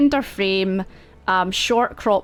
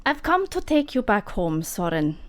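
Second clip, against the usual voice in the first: condescending mentor; 4 semitones higher than usual. Acted.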